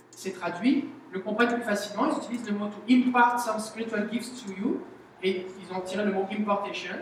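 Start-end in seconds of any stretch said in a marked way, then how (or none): 2.7-4.8 English phrase in a light French accent. Shown as a demonstration. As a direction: say "to impart some spiritual gifts to you" with a French accent. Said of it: "ça c'est avec mon accent français". (anglais avec un léger accent français)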